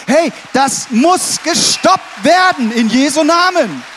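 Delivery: a pulpit battle cry, in earnest; fervent shout. Real, not acted. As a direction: thunder it out as a rallying call. Preacher calling out against perversion.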